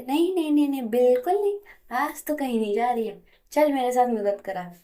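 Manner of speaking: loud refusal. Acted. Roshni loudly stopping her friend from slipping away. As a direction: firmly refuse to let her go, raising the voice.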